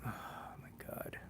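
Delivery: breathy whispered oh my God under the breath; slow hushed whisper to himself; whispered aside. Real, not acted. Livestreamer whispers to himself at the glitchy site, slow whisper.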